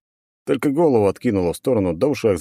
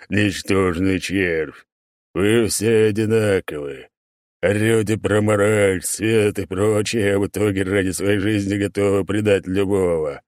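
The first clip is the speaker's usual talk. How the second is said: gloating demon. Acted.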